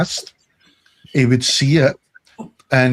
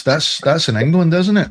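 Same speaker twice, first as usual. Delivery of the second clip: higher-pitched imitation of a clueless gamer; put-on clueless query; mock clueless questioning; 5 semitones higher than usual. Mimicking clueless online racer.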